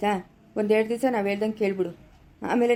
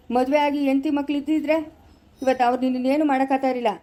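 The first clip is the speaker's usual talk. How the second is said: scolding. Acted. Elder scolds man refusing marriage.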